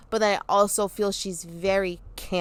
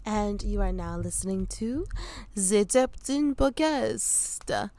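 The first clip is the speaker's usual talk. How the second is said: put-on French accent; 4 dB quieter than usual. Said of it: "I do a French accent".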